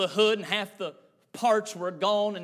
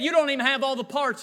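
incredulous objection; 4 semitones higher than usual. Retold or imitated. Grandson objects to the plan.

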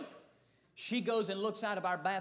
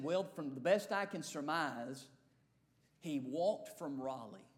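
slow deputy; 6 semitones lower, 3 dB quieter, slower than usual. Retold or imitated. Deputy's slow drawled report.

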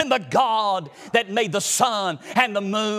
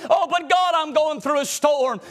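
believer pleading with God; 3 semitones higher than usual. Acted.

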